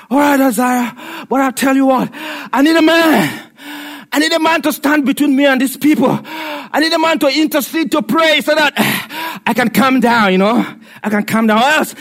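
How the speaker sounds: emphatic God voice. Acted. God pleading for intercessor.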